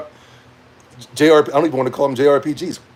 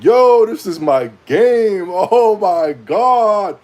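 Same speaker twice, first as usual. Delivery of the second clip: hyped fan; 5 semitones higher, 4 dB louder, much slower than usual. Retold or imitated. Imitating hyped chat.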